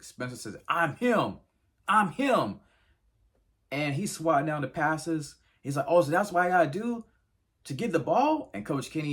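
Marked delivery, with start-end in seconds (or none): 0.7-8.5 high, loud yelled boast; retold shouting. Player yelling at the coach during practice, loud boast. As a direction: yell it like you're owning the field. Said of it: "he ends up going ballistic".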